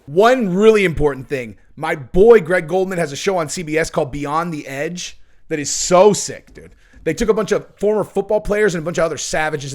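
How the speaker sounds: loud, pumped-up pitch for a friend's show; hyped promo. Real, not acted. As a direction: sell it like you love it.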